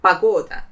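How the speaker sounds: pagoda said pa-GO-da, first o sounding like a; unstressed o as a. Shown as a demonstration. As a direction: model pagoda carefully, first vowel as a. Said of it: "So it will sound as".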